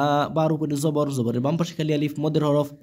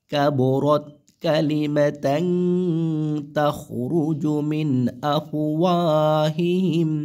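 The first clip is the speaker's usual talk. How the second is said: slow, drawn-out recitation; Quran recitation; much slower than usual. Shown as a demonstration. Teacher recites the verse for students, slow and drawn out. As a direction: chant the verse slowly, stretching the vowels.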